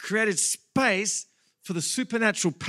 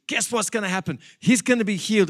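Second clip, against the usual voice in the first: a touch louder, eager and determined; eager resolve; 4 semitones higher, 4 dB louder than usual. Retold or imitated. Friends urging each other to reach Jesus, eager. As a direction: insist it'll work, building hope. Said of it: "their faith inside of says".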